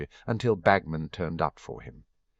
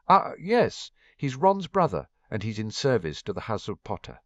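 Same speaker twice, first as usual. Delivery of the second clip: put-on French accent; 3 semitones higher than usual. Narrator voices Fleur.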